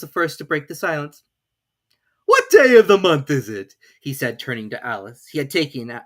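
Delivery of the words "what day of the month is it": much louder, higher sudden question; Hatter. A narrator's reading. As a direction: break the silence abruptly.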